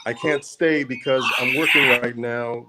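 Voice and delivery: glitchy call audio dropping out; words chopped by a bad connection; radio breaking up. Real, not acted. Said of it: "You're very choppy".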